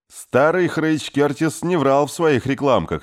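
loud, high joyful shout. A narrator's reading. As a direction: yell it out with relief. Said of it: "заорал Кей".

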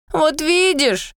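slow, high whine; a drawn-out mild whine; whining. A narrator's reading. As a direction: whine it like a sulky child. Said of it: "заныл Дом".

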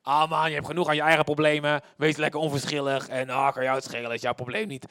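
monotone, dismissive devil's voice; tempting enemy. Acted. The enemy urging indifference, careless and dismissive. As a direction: talk them into not caring. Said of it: "de vijand komt, zegt".

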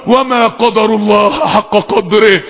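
grave, measured verse; solemn recitation. Real, not acted. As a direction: recite it gravely, drawing out the words. Recites verse in hushed awe.

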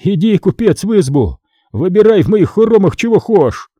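mock the merchant bitterly; spiteful host, lightly voiced; bitter mockery. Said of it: "встретил его злым смехом".

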